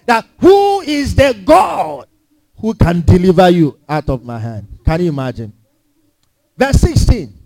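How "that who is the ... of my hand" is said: boastful king. Retold or imitated. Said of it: "how boastful Nebuchadnezzar was".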